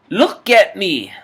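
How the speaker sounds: very high, very loud slow scream; loud brutal order; screaming guard. Acted. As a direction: scream it in his face. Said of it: "The Bird and Lewis".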